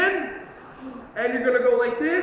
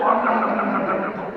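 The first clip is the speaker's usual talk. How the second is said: bear munching noise; 5 semitones lower than usual. Shown as a demonstration. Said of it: "and go".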